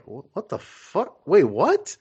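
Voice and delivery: shocked crowd. Retold or imitated. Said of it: "until they got over the shock".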